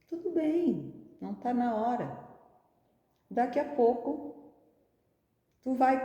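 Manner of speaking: high, gentle reassurance; kindly, friendly spirit. Acted. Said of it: "muito bondosa e amiga de todos nós".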